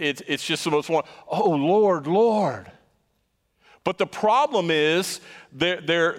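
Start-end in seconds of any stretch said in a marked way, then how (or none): 1.3-2.7 imitating a fervent cry of "Lord, Lord"; calling out to the Lord. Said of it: "People are calling that out to him".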